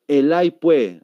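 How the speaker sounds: camba-style "pues" with the final S dropped; demonstrated Santa Cruz speech; Santa Cruz accent. Shown as a demonstration. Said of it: "si voy a Santa Cruz".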